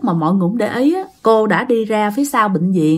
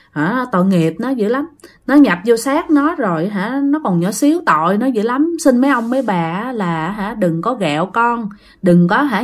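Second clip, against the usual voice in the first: praying plea. Acted. Mother begs unseen spirits to spare her child, pleading. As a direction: plead humbly, keeping the voice down. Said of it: "cô khấn vái, cô nói rằng á".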